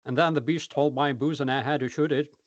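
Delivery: a hint of a Texas farmer; Texas accent. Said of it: "show us your Texas accent".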